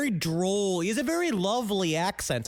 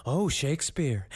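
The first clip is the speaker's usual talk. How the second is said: mock posh British; 5 semitones lower than usual. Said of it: "they're like".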